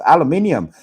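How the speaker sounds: aluminium said the British way, al-u-MIN-ium; proper aluminium. Shown as a demonstration. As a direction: stress MIN in Aluminium, five syllables. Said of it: "we say aluminium properly".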